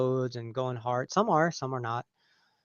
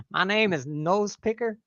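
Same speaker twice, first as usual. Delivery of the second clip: laughing; 5 semitones higher than usual. Real, not acted. Joking name, laughing.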